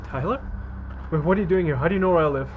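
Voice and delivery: high, startled questions; surprised. Acted. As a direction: caught off guard at the door. Finds Tyler at her door.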